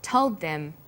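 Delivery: TOLD THEM joined up, THEM weak; linked words. Shown as a demonstration. Teacher modelling the highlighted words, TOLD THEM linked. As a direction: link TOLD straight into THEM. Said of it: "learned about linking words".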